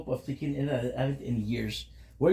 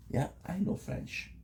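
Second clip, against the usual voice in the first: slow whisper, a secret brag; whispered boast; 6 semitones higher, 5 dB quieter, slower than usual. Pretend. Bragging to chat about knowing French, slow whisper. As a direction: breathe it out slowly like a secret. Playful boast after listing languages.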